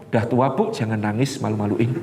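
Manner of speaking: low, cold brush-off; cold dismissal. Retold or imitated. Adult child brushing off his aching mother, low and cold. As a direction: shrug off the old mother's pain, low and cold.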